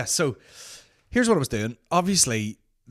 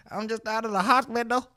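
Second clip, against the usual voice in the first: Ronnie Coleman impression; 12 semitones higher, 3 dB louder than usual. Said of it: "he'd be like".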